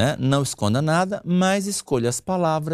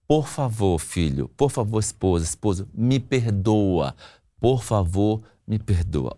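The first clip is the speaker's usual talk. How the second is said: sincere apology; 4 semitones lower than usual. Shown as a demonstration. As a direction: apologise humbly and mean it. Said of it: "Número um, diga assim".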